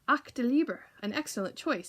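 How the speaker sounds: put-on thick German accent, a man's exclamation. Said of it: "said a man with a thick German accent".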